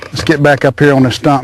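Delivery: slightly winded; a little spent after the excitement; out of breath. Real, not acted. Angler after landing a big fish, a bit winded. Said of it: "I'm out of breath".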